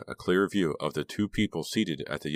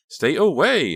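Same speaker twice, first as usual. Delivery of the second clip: menacing; 11 semitones higher, 9 dB louder, slower than usual. A narrator's reading. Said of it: "her voice lowering with menace".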